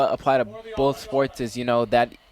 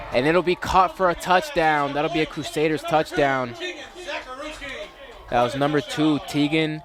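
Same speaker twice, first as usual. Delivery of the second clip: slow, measured game announcer's call, raised in pitch at first; play-by-play touchdown call; 4 semitones higher than usual. Real, not acted. Commentator calls a Crusaders touchdown for viewers, live play-by-play.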